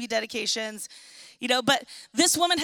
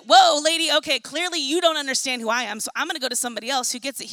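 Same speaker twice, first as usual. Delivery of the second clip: mock exasperated; 5 dB louder, faster than usual. Imagined Jesus giving up on her.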